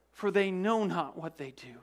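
breathless whisper, fading; a dying man whispering from the cross. Retold or imitated. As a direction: let the words die away into a whisper. Dying man's fading words.

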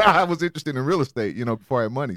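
chuckling at the sponsor for his own line; laughing. Real, not acted. Host hears him laugh-repeating the line, laughing. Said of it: "laugh on the repeat".

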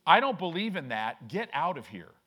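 loud retort of an offended stranger; mock outburst, loud at first; acted angry rejection. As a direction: raise the voice to send someone away.

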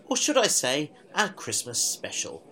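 blocked nose, nasal voice; talking through blocked sinuses. Real, not acted. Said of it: "why do I sound so nasal".

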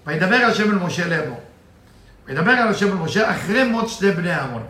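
rattling off the Hebrew verse quickly; fast Hebrew recitation; rapid text reading. Acted. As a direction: read the verse at speed, as in study. Reads Zohar text fast.

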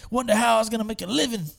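put-on ex-prisoner telling kids nobody waited for him; building mock yell. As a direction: let it swell into a pained shout. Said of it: "He's like".

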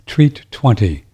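slow, careful through hiccups; slow, careful words between hiccups. Real, not acted. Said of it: "I got the hiccups".

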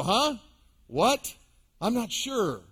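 mock-puzzled self-talk, questions rising; lightly acted confusion with questioning upturns; acted puzzlement. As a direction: play briefly baffled, talking to yourself.

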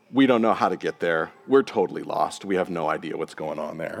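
a lightly voiced baffled follower admitting he is lost; confused Thomas. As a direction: pastor voicing Thomas, fumbling and lost.

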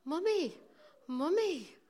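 put-on high, plaintive small boy; mock-distressed little voice, drawn out; little child's voice. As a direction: imitate a worried child calling for Mummy. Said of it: "I could hear this little voice going".

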